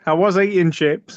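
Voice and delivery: Northern Irish accent, chips said "sheps". Shown as a demonstration. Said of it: "I'm trying to do a Northern Irish accent".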